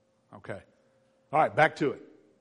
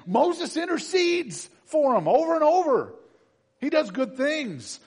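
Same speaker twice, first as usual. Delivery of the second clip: excited praise; 12 semitones higher, 8 dB louder than usual. Real, not acted. Preacher's high emphatic praise.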